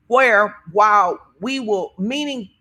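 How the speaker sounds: slow, muddled stumble through a phrase; tripping over words. Real, not acted. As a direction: lose your way mid-sentence. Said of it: "I got tripped over my words".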